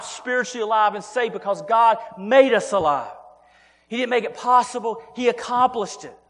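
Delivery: rising, insistent preacher's push; fervent preaching. Acted. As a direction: drive each line home from the pulpit. Preacher driving his point home.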